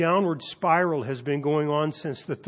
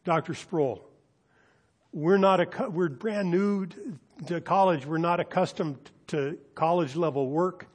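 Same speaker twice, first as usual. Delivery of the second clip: higher, imploring student voice; pleading students; 4 semitones higher than usual. Retold or imitated. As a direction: beg the professor for mercy. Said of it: "They pleaded".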